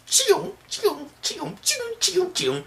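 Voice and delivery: high-pitched robotic gadget noises; mechanical sound effect. Retold or imitated. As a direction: squeak out little machine zaps. Mimics mechanical hand popping out.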